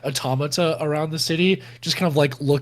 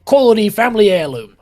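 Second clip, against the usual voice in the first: lightly pitched-up stammering excuse; a touch of flustered salesman; evasive mayor; 4 semitones higher than usual. Acted. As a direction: bluff your way through, stumbling.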